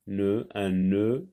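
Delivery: "Nœud" with a long, drawn-out vowel; lengthened vowel. Shown as a demonstration. Teacher showing the length in "nœud", vowel drawn out. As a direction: hold the vowel in "nœud", slowly. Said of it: "Il y a une longueur dans la prononciation".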